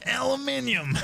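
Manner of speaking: Aluminium shouted high, al-oo-MIN-ee-um; British aluminium. Shown as a demonstration. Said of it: "If you really wanna make chat cry".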